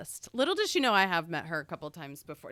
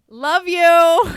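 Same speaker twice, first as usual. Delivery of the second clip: much higher and louder in a character voice; Miranda voice; 9 semitones higher, 14 dB louder than usual. Retold or imitated. Fan says goodbye to the star in character. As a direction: belt it out in the character's voice. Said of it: "And I was like".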